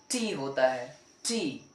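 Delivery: "टी" said softly, between the two Hindi t-sounds. Shown as a demonstration. Teacher modelling the soft English T. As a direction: let "टी" fall soft. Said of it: "टी नहीं होता".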